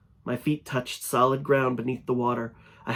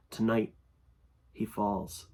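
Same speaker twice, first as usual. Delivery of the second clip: ominous creature voice; 2 semitones lower, 6 dB quieter, slower than usual. Acted. Creature speaks new warning.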